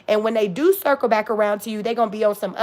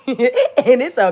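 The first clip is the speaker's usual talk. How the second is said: talking through a laugh; 4 dB louder, much slower than usual. Real, not acted. Delighting in not giving a shit, laughing. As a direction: let amusement bubble through the words. Laughing at her own candour.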